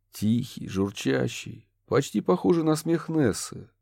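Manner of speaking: plain reading voice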